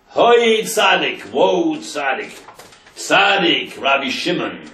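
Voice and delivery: high, slow, drawn-out cry of grief; a mother wailing her plea up to the tzadik; bitter cry. Retold or imitated. Grieving mother cries out at the tzadik's grave, high, slow and bitter. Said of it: "with a bitter voice".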